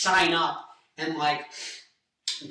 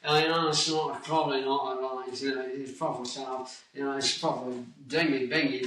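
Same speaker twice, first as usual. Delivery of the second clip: loose put-on British accent; a rough stab at British English. Shown as a demonstration. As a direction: mumbly attempt at a British accent. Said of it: "This is my Britain".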